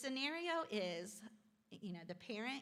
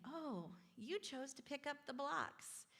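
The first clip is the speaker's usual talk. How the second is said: encouraging; 4 semitones higher, 3 dB quieter than usual. Shown as a demonstration. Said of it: "encouraging in a loving way".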